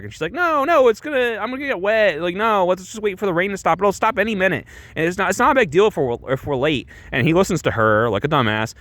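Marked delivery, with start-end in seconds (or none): 0.3-6.9 high, petulant whine; high bratty pleading; whiny girl voice. Retold or imitated. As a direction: whine like a spoiled rich girl. Spoiled Kathy refusing in rain.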